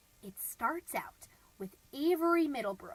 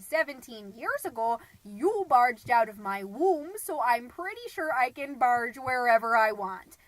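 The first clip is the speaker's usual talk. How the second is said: retold motherly scolding, punched loud; indignant mom; 7 dB louder than usual. Mom retelling her comeback to her son, indignant. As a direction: lay down the law, loudly.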